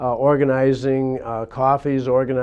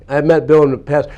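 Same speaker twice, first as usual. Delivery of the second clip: louder, firm correction; emphatic restatement; 2 semitones higher, 6 dB louder, faster than usual. Shown as a demonstration. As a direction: say it again with weight.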